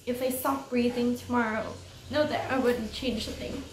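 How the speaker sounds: earnest, understated read-aloud; story narration. A narrator's reading.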